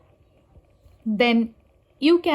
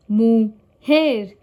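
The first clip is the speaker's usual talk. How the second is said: mujer split up, emphatic JER; last syllable stressed; 4 dB louder than usual. Shown as a demonstration. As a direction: lean on JER: mu-JER. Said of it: "last syllable".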